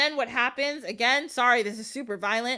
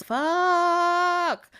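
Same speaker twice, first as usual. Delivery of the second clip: a sudden pitched-up curse; alarmed curse; 7 semitones higher, 4 dB louder than usual. Retold or imitated. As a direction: spit it out as dread hits. Princess sees villain coming.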